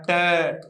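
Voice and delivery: "ट" said as a bare t with a weak schwa; short t sound. Shown as a demonstration. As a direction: give "ट" as t plus a weak a, not "टू". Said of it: "ऐसा pronunciation होता है".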